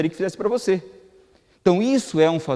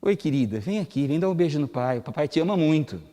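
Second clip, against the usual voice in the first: gentle, loving. Shown as a demonstration. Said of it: "Falei praticamente a mesma coisa".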